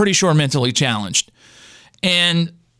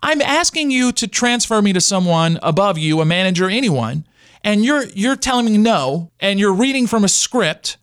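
retold screaming; 4 semitones higher than usual. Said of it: "I'm screaming".

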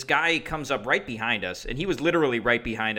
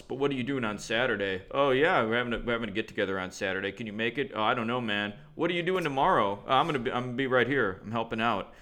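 lightly imitated bro back-and-forth, some lines rushed; two bros, same voice. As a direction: trade plans as two interchangeable bros. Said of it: "they both had the same voice".

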